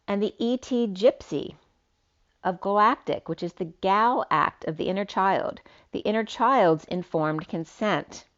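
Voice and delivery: slightly lifted, declamatory read; poetic reading. Acted. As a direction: read it out like a cryptic verse. Reads out written poetic message.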